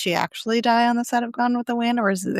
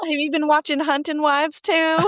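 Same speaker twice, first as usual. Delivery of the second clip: put-on sassy girl talk; 4 semitones higher than usual. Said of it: "Why am I talking like this?".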